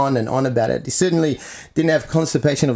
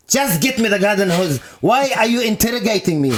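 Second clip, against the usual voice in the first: mock indignation, raised and defensive; imitating an upset uncle; 7 semitones higher than usual. Uncle snapping at his nephew over the hose, mock upset. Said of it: "then he gets upset".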